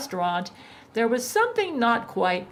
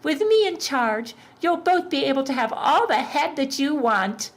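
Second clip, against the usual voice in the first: higher, smooth Satan voice; smooth devil; 7 semitones higher than usual. A narrator's reading. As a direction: purr it like a cocky devil. Satan reassures demon women.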